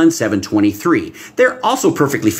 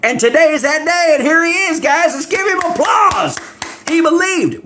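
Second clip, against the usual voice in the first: excited announcement. Acted. Jesus introducing the thief to cheering heaven, excitedly. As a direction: present him like a host calling for applause.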